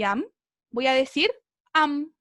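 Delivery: am as in a hungry bite, short and open; pronounce am. Shown as a demonstration. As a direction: say am like a quick mouthful. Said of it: "como que tengo hambre".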